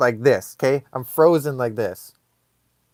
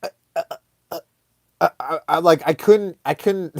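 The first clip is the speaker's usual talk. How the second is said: halting, broken false starts; acted tongue-tied panic; speechless stammer; 2 semitones higher, faster than usual. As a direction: stammer as if words won't come out. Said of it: "words could not come out of my face".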